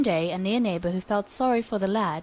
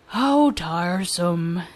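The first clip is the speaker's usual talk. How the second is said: lazy drawl; 3 semitones lower, much slower than usual. Acted. Lazy Taro complains.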